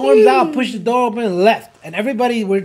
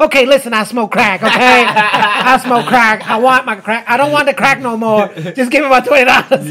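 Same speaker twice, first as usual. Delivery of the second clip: louder, insistent mock rant to the cop; mock crackhead rant; 5 dB louder than usual. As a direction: demand the money back, hammed up. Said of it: "So she says".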